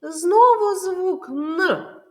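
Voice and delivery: slow and high, ending on a separate sounded "Н"; isolated consonant sound. Shown as a demonstration. Teacher names the next sound, "Н" said as a lone sound. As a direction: spell out the sound "Н" by itself, slowly and loudly. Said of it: "Наступний звук".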